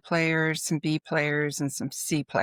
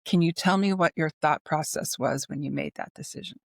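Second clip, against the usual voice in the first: calm. Retold or imitated. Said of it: "could very calmly say".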